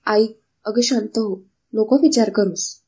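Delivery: calm your upset mother; consoling. Acted. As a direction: daughter comforting her mother. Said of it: "सांत्वन देत असते".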